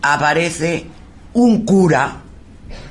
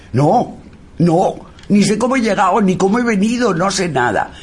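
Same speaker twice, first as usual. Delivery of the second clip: put-on frightened boy; 8 semitones higher than usual. Scared boy answers, retold.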